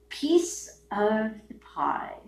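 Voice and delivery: slow whisper, barely voiced. To the government, a slow bitter whisper.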